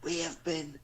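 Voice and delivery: near-whispered sign-off; whispering. Real, not acted. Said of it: "Why you whispering".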